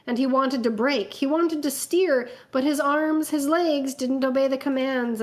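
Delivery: measured, dramatic fanfic reading; story narration. A narrator's reading. Reading a fanfic aloud to friends, dramatic narration.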